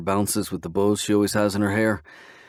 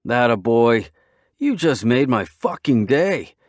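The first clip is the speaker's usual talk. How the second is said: delighted; 3 semitones higher, 5 dB louder, slower than usual. Acted. Friend delighted.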